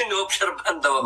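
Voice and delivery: quick, laughing aside; amused that they were just observing him. Real, not acted. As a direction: chuckle through it.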